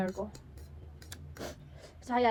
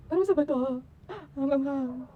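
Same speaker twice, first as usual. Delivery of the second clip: high, loud wail about the spice; loud cry of spicy pain; 5 semitones higher, 5 dB louder than usual. Real, not acted. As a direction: yelp it out in burning pain.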